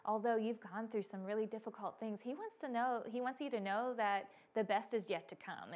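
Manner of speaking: soft, tender encouragement; loving, pouring out. Retold or imitated. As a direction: speak gently to comfort and encourage her. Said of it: "loving and pouring".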